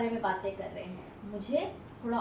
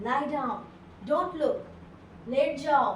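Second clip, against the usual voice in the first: louder urgent order to lie down; urgent warning; 2 semitones higher, 3 dB louder, slower than usual. Acted. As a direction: warn her sharply. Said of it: "वो अपनी wife को कहता है". (पति पत्नी को डर से ज़ोर से कहता है, लेट जाओ)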